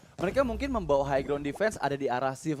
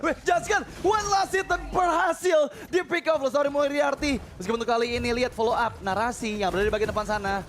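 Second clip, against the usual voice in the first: excited shout-casting; 5 semitones higher, 4 dB louder than usual. Acted. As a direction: yell the pick-off to the crowd. Hype call on pick off.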